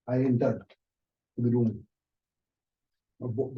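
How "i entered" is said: normal talking voice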